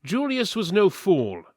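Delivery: usual speaking voice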